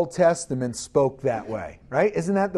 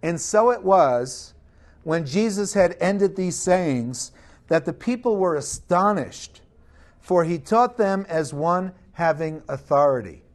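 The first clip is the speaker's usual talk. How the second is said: scripture reading. Acted. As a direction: lay the Bible passage out for the congregation. Reads scripture aloud.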